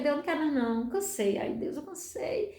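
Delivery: soft, weary complaint to God; desabafo triste. Retold or imitated. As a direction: let the voice drop away, tired and sad. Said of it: "foi muito triste pra mim". (desabafo triste e cansado, baixinho)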